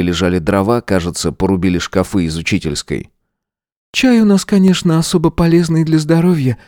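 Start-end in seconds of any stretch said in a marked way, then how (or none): 3.9-6.6 high woman's voice, wry and smiling. A narrator's reading. Lidia joking while pouring carrot tea, smiling. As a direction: joke about the carrot tea. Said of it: "улыбнулась Лидия".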